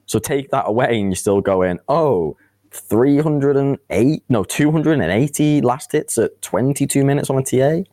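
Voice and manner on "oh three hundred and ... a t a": higher-pitched, astonished quote; incredulous mock reaction. Commentator marvelling at last hits in a game, incredulous. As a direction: act out amazed disbelief, pitch lifted.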